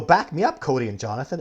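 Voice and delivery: loud, urgent call for backup. Retold or imitated. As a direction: shout to the guys for support. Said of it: "And I go".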